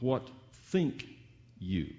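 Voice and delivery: slow phrase, THINK held apart before "you"; stress on THINK. Shown as a demonstration. Preacher contrasting thinking with knowing and feeling, stress on THINK. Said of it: "put the first emphasis on thinking".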